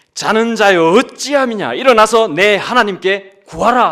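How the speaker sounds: loud, slow, drawn-out, urgent cry.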